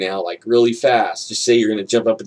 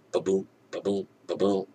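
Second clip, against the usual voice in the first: soft, low pulse thumps; imitated heartbeat; 3 semitones lower, 9 dB quieter than usual. Imitating the pulse monitor behind the knee, soft heartbeat. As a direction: softly beat out a steady ba-boom. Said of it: "it's like".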